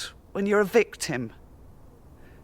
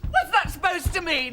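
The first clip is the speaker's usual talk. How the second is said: high-pitched demand; heated, indignant question; angry challenge; 9 semitones higher than usual. Acted. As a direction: demand an answer, voice raised in pitch. Escalating quarrel.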